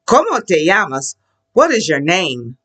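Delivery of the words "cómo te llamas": "¿Cómo te llamas?" joined up at natural speed; a little faster. Shown as a demonstration. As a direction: run the words together a little faster. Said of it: "put it a little faster".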